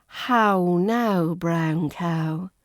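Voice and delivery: drawn OW glide in "How now, brown cow"; RP diphthong demo. Shown as a demonstration. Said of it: "it's another diphthong sound".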